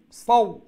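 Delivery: "saw" sounded out as one brief glide; short lean glide. Shown as a demonstration. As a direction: model "saw" firmly, without prolonging the vowel. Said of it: "like that".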